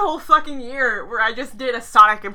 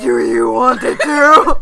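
Griffin voice; 4 semitones lower, 7 dB louder than usual. Pretend.

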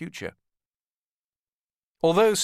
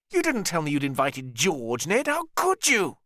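higher, indignant brother voice; upset younger brother; 6 semitones higher than usual. Acted. Richard reproaches Ned over inviting George, higher indignant. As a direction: reproach your brother, rising hurt.

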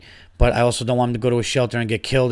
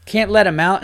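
exasperated, raised cry of frustration; fed up and at a loss; pissed off; 5 semitones higher, 4 dB louder than usual. Real, not acted. Podcaster up at four a.m. over his cats, exasperated. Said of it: "Now I'm pissed".

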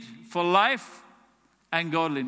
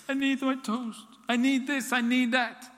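demanding whine; 6 semitones higher than usual. Retold or imitated. Believer demanding toast.

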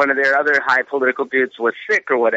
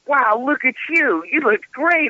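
much higher, gushing voice for Chloe; imitating Chloe; 10 semitones higher than usual. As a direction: gush like an impressed girlfriend. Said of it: "Chloe's like".

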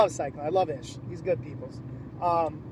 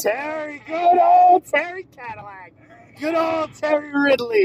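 sarcastic shout; 7 semitones higher, 8 dB louder than usual. Real, not acted. Mocking a hated booker.

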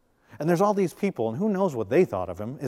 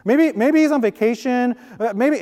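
high, mocking trash talk, louder toward the toilet jokes; sarcastic taunt; 7 semitones higher, 5 dB louder than usual. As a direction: taunt the false prophets with mock concern. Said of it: "Elijah's real sarcastic".

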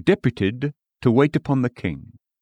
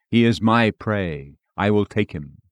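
grim reaper voice; 2 semitones lower than usual. Acted. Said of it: "said Death".

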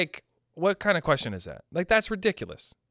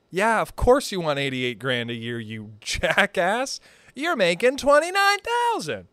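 mocking sneer; 2 semitones higher than usual. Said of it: "be like".

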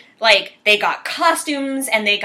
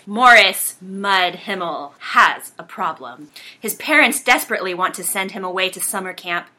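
dramatic reading. Acted. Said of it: "Virginia's gonna do a dramatic reading of the I M D B".

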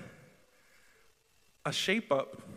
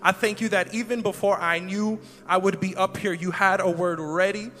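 prayer. Acted. Leads a prayer.

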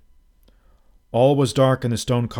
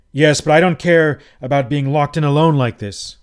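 louder, higher uneasy protest; anxious protest; 4 semitones higher, 8 dB louder than usual. A narrator's reading. Trapped guest protesting to his host, uneasy. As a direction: push back, growing alarm.

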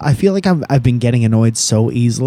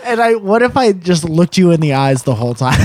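laughing; 5 semitones higher than usual. Real, not acted. Laughing while joking.

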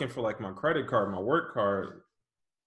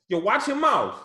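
laughing self-quote; 7 semitones higher, 4 dB louder than usual. Retold or imitated. Quoting himself, laughing.

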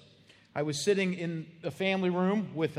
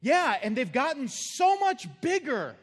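high, louder, slow mock old man; husband voice; 9 semitones higher, 7 dB louder, slower than usual. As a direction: insist proudly. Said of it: "he says".

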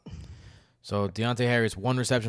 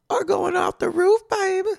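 much higher, squealing hype call; hyped-up announcer; 6 dB louder than usual. Acted. Host kicking off the stock rising segment, hyped. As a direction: sell it like a game show host.

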